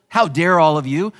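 a hint of a bragging tyrant; mocking arrogant king. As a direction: lampoon a swaggering king. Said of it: "as our brother on the internet wanted to portray".

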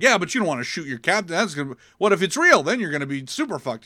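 retold pleading argument, rushed; urgent protest. Crew talking Riker out of firing, urgent protest.

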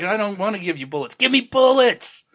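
rising into a high, loud squawk; mock shouted demand. Frank mocked, badgering the racist for bullets, high and loud. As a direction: start fast, then blow up into a hammed-up yell. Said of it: "And the guy's like".

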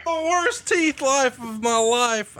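slow, laughing echo of the slip; amused repeat. Real, not acted. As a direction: savour the blunder, drawn out with a laugh.

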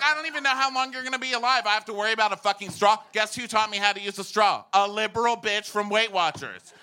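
high, loud mock indignation; comic outraged rant. Comic complaining to the crowd about straws, exasperated rant. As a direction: gripe at full comic exasperation.

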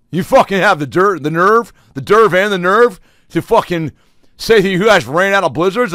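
high, loud, hammed-up furious tirade; furious customer rant. Furious customer ranting at the Dairy Queen cashier, high and loud. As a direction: rant at the cashier like your world ended.

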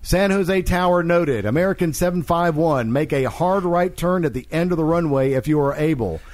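measured reading of a radio call; anecdote read-aloud. Acted. Host reading a tower's joke to cohosts, read-aloud. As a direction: read it out evenly, phrase by phrase.

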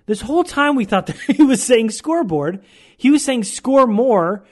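laughing retelling of the misunderstanding. Real, not acted.

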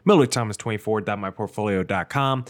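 normal talking voice

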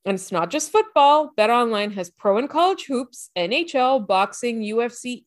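upbeat sponsor read with a salesy push. Acted. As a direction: sell the promo code like a radio spot. Host reads sponsor ad.

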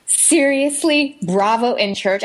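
mock reproach, slow drawn-out "seriously"; retold telling-off, incredulous and measured; scolding. Imitating friend scolding her in church, mock reproach. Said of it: "that whole scolding".

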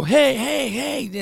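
high, eager calls to pump up the dog; excited dog hype. Shown as a demonstration. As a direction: hype the pup up with quick calls. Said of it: "swinging it back and forth and getting excited".

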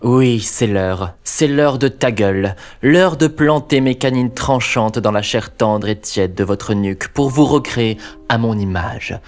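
a hint of a gloating vampire; menacing vampire host. Vampire host greets viewers.

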